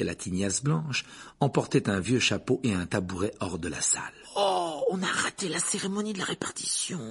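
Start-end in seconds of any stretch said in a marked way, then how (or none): 4.4-7.0 put-on high, girlish lament without volume; disappointed murmur. A narrator's reading. Girl murmuring to friends about a missed ceremony, disappointed. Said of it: "murmura Hermione".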